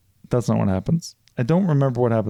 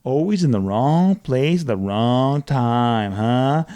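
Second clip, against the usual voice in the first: slow villain taunt; much slower than usual. Retold or imitated. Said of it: "Timothy Olyphant's like".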